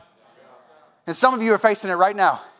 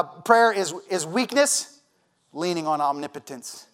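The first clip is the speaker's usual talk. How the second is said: quoted saying, softly; 7 semitones lower, 5 dB quieter, slower than usual. Shown as a demonstration. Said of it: "How about this one?".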